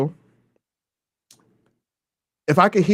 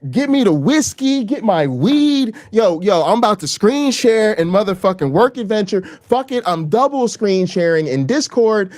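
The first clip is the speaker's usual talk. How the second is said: hyped up; 4 semitones higher than usual. Retold or imitated. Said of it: "I'm like".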